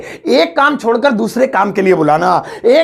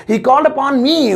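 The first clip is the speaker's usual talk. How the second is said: slow second take, a bit higher; slow careful English repeat; 4 semitones higher, much slower than usual. Shown as a demonstration. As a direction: repeat it slowly for the class. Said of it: "so English होगी".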